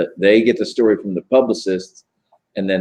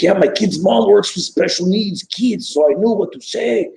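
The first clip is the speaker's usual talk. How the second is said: high raspy imitation voice; Danny Trejo; 11 semitones higher than usual. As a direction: mimic Danny Trejo, pitched way up. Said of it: "that's my Danny Trejo specifically".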